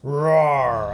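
spoken "roar" drawn out; playful tiger roar. Pretend. Tiger in picture book.

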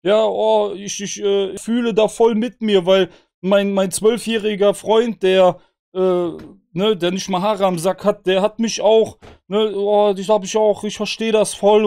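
high mock-gushing fan voice. Mocking the young fans commenting under the video, high and gushing. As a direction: squeal it like a starry-eyed kid fan. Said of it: "drunter schreiben so".

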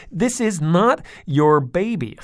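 loud, slow, high firm warning; stern dad. A narrator's reading. Father telling his daughters firmly, loud and slow. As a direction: lay down the law.

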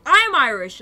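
hammed-up loud declaration; imitated proclamation. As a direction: proclaim it loudly as the retold paramedic. Acts out paramedic proclaiming it.

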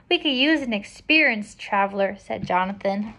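projected storybook reading with lightly lifted dialogue; picture-book narration. A narrator's reading. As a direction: read the tale out clearly to children. Reads picture book aloud.

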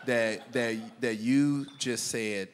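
drawn-out, halting disbelief, very slow. Retold or imitated. Customer repeating the teller's words back, slow and incredulous. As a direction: spell it out slowly as if it can't be true.

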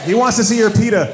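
loud comic shout; shouted joke. Real, not acted. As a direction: punch the joke out to the crowd. Yelling joke at audience.

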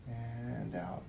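deep breath in; breathing deeply for doctor. Real, not acted. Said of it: "We're gonna breathe deep".

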